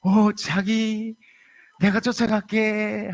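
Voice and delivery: eager husband cooing back to his wife; syrupy Seoul husband voice; sweet Seoul husband. Acted. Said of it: "남편이 벌떡 일어나더니".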